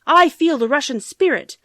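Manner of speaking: high, loud witch declaring. Acted. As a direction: announce it like a hungry old witch. Witch smelling the children.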